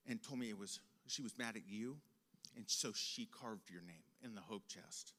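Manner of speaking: low, soft, halting apology; very calm mom. Retold or imitated. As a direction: imitate a humbled mother explaining quietly. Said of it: "in comes my mom very calmly".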